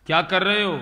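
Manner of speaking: a pushy wife voice; wife's voice. Acted. Wife questions chanting husband. (पत्नी की ऊँची आवाज़)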